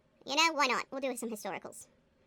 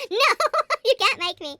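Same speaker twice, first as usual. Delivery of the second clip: loud, high cry of refusal; big hammed-up protest; mock defiant shout; 7 semitones higher, 13 dB louder than usual. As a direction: refuse it in playful outrage. Mock refusal of a horror book.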